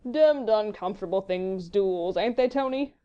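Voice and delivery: lazy drawl, lifting at the end; placid fop. A narrator's reading. Sir Percy settling down, placid drawl to Tony. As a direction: remark it idly, as if unbothered. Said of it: "as he placidly sat down".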